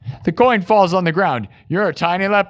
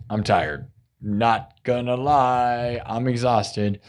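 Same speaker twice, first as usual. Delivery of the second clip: worn-out late-night mumble; sleepy murmur; 5 semitones lower, 6 dB quieter, much slower than usual. Real, not acted. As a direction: lower and softer, fading out with tiredness.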